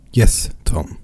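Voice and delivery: a hushed, voiceless yes to her brother; whisper. A narrator's reading. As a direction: whisper it close to his ear. Sister answers Tom softly.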